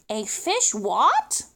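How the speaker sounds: slow, puzzled "A fish what?" with "what" rising; drawn out, baffled "what?"; puzzled question. Acted. Pelican puzzled by the word fishmonger.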